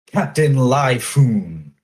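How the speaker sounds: slow, grand self-introduction; proud pirate captain. Acted. Starving pirate proudly introduces himself to the Marines, slow and grand. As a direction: announce yourself like a swaggering captain.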